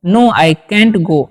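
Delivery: each word spaced out slowly for students; slow dictation. Shown as a demonstration. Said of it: "इस तरीके से बोल सकते हैं". (धीमे-धीमे बोलकर लिखवाना)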